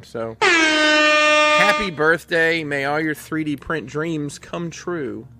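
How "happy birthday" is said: birthday shout. Acted. Calling out birthday wishes.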